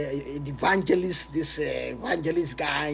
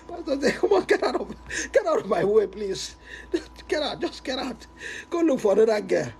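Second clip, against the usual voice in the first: laughing dismissal; 5 semitones higher than usual. Retold or imitated. Pastor chasing him away, laughing.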